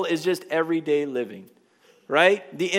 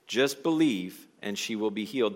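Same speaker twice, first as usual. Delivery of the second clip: slow reassuring repeat; 6 semitones lower than usual. Shown as a demonstration. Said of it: "Do you see that perspective change?".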